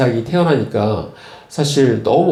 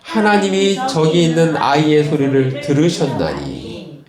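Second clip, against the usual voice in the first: scripture reading. Acted. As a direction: read the verse aloud with the congregation. Congregation reads scripture aloud.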